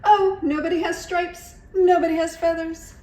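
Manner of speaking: high, loud laughing realization; happy laughing cry. A narrator's reading. Iguana realizing all are dressed as her, high laughing cry. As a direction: laugh with relief. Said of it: "she cried".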